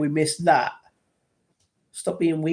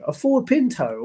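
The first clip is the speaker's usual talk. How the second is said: "Ford" pitched much higher in disbelief; incredulous echo; 8 semitones higher than usual. Real, not acted. Streamer echoing a chat car suggestion, incredulous and high. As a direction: echo "A Ford Pinto" back, high and amazed.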